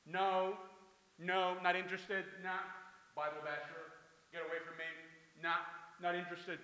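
firm mock brush-off; dismissive opposition. Stranger rejecting a Bible basher, mildly hammed-up dismissal. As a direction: turn the preacher away with repeated refusals.

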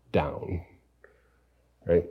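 breathy whisper on down, dropping away. Acted. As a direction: let the word sink into a whisper. Dramatic drop on a word.

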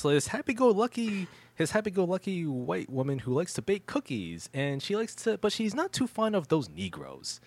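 high, sing-song put-on sweetness; happy-go-lucky housewife. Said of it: "that's how she comes off as".

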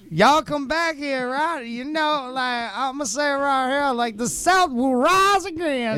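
high-pitched, hammed-up Southern rallying cry; mock Southern rebel. Host clowning about the South rising again, mock rebel cry.

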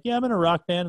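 chest-out proud rock band boast; proud announcement. Retold or imitated. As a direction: announce it with gusto. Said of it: "Being like".

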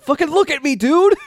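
very high, insistent imitation; mock attention demand. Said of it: "pointing at himself, like".

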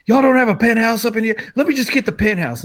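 high, hammed-up celebrity rant; mock Broner rant. To hotel security, a mocking high celebrity tantrum. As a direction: whine like an entitled star caught out.

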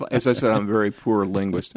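a real chuckle through the words; laughing. Real, not acted. To the host, admitting poor language skills, laughing. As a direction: laugh as you answer.

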